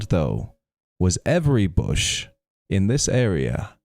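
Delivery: lively storyteller with measured pauses; story narration. A narrator's reading. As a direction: tell the tale, savouring each turn. Reads a folk tale aloud.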